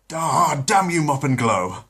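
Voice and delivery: put-on high, loud villain-baby outburst; Stewie cursing. Stewie the baby curses Mop and Glow, loud and high. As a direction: shake a fist at the floor cleaner.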